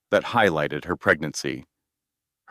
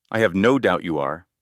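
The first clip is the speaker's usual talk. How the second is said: cool and steady. Acted. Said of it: "Maggie's voice was cool and steady".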